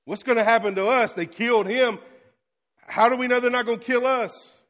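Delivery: quick, anxious voicing of frightened disciples; a hint of panic, voiced by the preacher; mock worried disciples. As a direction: play the scared followers, fast and fretful.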